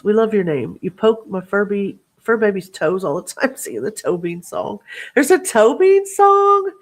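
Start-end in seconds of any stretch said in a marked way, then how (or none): 5.1-6.7 much higher and louder, slow disbelief; real delighted surprise at the news; surprised. Real, not acted. To chat about the Toe Bean song, surprised.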